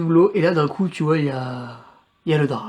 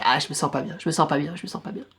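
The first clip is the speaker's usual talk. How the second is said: faint and weak; 2 semitones lower, 6 dB quieter than usual. Retold or imitated. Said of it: "je fais".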